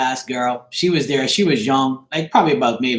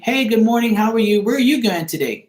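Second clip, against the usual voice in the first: imitating a perky elderly lady, higher; a light mock of a chirpy sixty-year-old greeting; chippery old lady; 7 semitones higher than usual. Lady at the check-in counter greets him, mildly imitated chirpy. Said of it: "you know, chippery".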